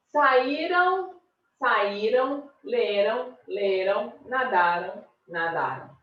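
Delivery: careful paired word list; pronunciation demo. Shown as a demonstration. Teacher showing a pronunciation difference, careful demo. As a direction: enunciate "Saíram, saíram, leram, leram, nadaram, nadaram" slowly one by one. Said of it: "Olha a diferença na hora da pronúncia".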